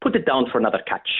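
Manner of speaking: lightly voiced, quick impression; a hint of an actor's Jesus; Jonathan's Jesus. Guest quotes Jesus telling Simon to fish, lightly voiced impression. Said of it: "maybe I'll do my impression of, of Jonathan's Jesus".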